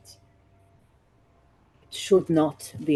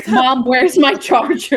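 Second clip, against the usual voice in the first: imitating Midori; 9 semitones higher, 14 dB louder than usual. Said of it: "Midori be like".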